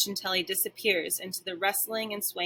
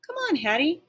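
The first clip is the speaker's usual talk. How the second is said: eager bark; 6 semitones higher than usual. Acted. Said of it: "I bark".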